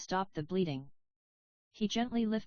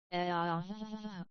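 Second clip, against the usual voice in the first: a hint of agony, breaking away; pained screams. A narrator's reading. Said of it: "Usopp screamed".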